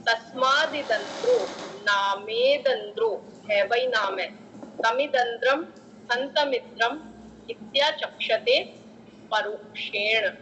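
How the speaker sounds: slow, measured chant of the verse; Sanskrit recitation. Shown as a demonstration. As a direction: intone it like a scripture reading.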